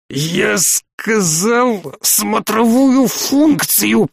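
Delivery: slow, high, choked protest; strangled wheeze. A narrator's reading. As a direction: force the words out through a squeezed throat. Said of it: "просипел майор Ли".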